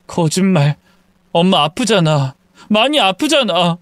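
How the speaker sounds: tearful insistence, climbing in pitch; weepy son contradicting mother; crying. Acted. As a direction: protest through tears. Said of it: "엉엉 우는 아들".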